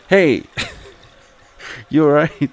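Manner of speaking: high, loud calls of "hey!"; calling out. Acted. Calling to the fallen character, loud and high. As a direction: shout to check someone's okay.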